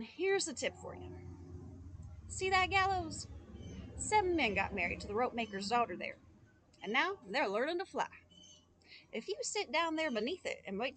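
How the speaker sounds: sly stranger. Acted. Stranger pointing the boy to the gallows, sly. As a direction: tease him with the gallows. Stranger giving grim tip.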